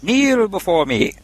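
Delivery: slow menacing voice, pitched high; ancient rasping undead king. Acted. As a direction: command them to kneel before you.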